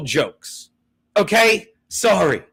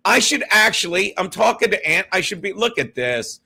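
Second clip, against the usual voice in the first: ordinary talk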